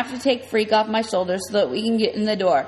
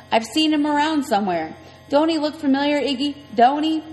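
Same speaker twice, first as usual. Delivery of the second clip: higher, squinting curious woman; Loretta's voice; 5 semitones higher than usual. Acted. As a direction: worry at it like a bone.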